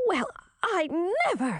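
high, affronted princess; put-on high voice, scandalized; sputtered indignation. A narrator's reading. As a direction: sputter it in offended disbelief. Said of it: "sputtered Chartreuse".

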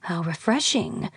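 soft dry murmur. Acted. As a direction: murmur it under your breath. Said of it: "murmured the skull".

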